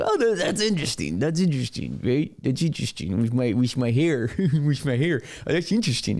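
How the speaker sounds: mock Chinese accent, lightly put on; Chinese-accent Newsom. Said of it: "turned Gavin Newsom into Chinese Gavin Newsom".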